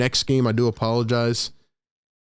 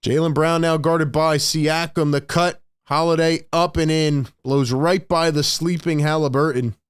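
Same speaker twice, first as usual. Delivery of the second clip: quick, lively game call over the action; live play-by-play; 2 semitones higher than usual. Acted. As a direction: call each play as it happens.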